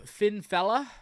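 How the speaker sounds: put-on a playful touch of Sheamus's accent, lifting at the end. Host greeting a chat member, in a light Sheamus accent. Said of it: "I say it in the accent of Sheamus".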